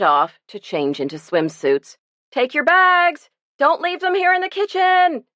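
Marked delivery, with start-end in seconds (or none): 2.3-5.2 yelling. A narrator's reading. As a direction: call out to the kids running off. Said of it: "yelled Lucy".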